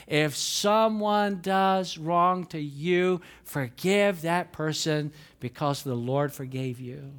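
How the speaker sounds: slow, measured verse reading; scripture reading. Acted. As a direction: read it slowly so all can follow. Reads verse slowly.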